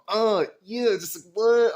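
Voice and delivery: loud, high burst of excitement; high-energy hyped exclamation; super excited. Retold or imitated. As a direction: re-enact being pumped up on the job. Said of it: "I'm super excited".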